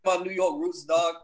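lightly hammed-up New York accent; terrible New York accent. Joking with friends about his New York roots, terrible New York accent. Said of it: "That's a terrible New York accent".

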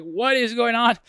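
high, loud mock disbelief from the girl next to her; imitating a bewildered neighbour. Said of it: "She's bawling".

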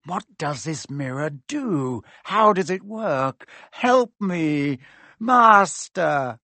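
building from muttering to a loud desperate cry; rising panic, calling out to his master; Quirrell pleading. Acted. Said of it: "He was still talking to himself".

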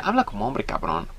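dropping low on cabrón; lightly voiced gruff father; a hint of a harsh macho dad; stern father. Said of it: "le decía".

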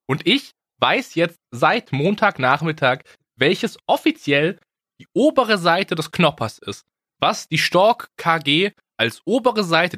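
slow, weighty build-up; slow dramatic reveal. Acted. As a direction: draw it out for suspense.

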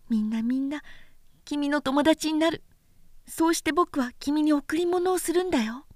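little prince voice. Acted. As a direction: speak like a small boy comforting a friend.

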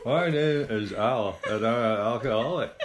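high squeaky grin voice, laughing; squeaky ventriloquist dummy. Pretend. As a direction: speak through a fixed big grin. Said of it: "That's quite good".

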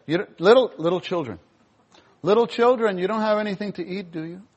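calling out gently from the shore; a caring call to the tired fishermen; tender call. Retold or imitated. Jesus calling kindly to the disciples in the boat, tender call. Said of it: "he said".

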